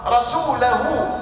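رسوله very slowly as rasulahu; accusative demonstration. Shown as a demonstration. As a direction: stretch رسوله with an a after the lam. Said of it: "اسم إن منصوب بها فصار".

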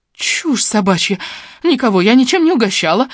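high, loud indignant denial; scornful snort. A narrator's reading. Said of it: "фыркнула женщина".

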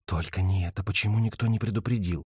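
quiet frightened voice; scared and soft. Acted. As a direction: murmur in fear of the dark. Lipa scared in dark. (испуганно и тихо)

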